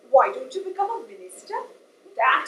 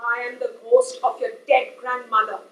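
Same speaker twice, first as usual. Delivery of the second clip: lower, mock spooky ghost; 6 semitones lower than usual. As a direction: play a lightly voiced ghost for a joke. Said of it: "Just kidding".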